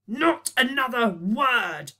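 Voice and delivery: slow, loud, cutting order; yelled. Acted. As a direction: shut them down hard. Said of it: "yelled Boyle".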